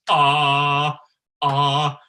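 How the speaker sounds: short, loud, hard "ah" on one pitch; harsh "ah". Shown as a demonstration. Coach reminding singers of harsh, a loud, hard "ah". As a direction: press the tone until harsh. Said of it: "Let's remember harsh".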